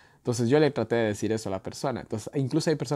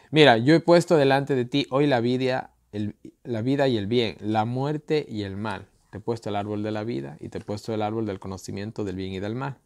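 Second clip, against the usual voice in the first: reading scripture aloud with weight, louder at the start; 3 dB louder than usual. Acted. Preacher reading Deuteronomy to viewers, solemn reading. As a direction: proclaim the verses to the congregation.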